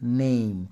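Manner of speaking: নেম with a long "ei" vowel; model pronunciation. Shown as a demonstration. Teacher repeating the word for students to copy, model pronunciation of নেম as "neim". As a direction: hold the vowel in নেম, closing gently on m. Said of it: "উচ্চারণটা এইভাবে হবে".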